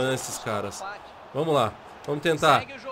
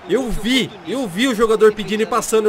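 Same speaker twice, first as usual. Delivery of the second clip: frustrated rant; 3 semitones higher, 6 dB louder than usual. Real, not acted. Frustrated complaint about keeper.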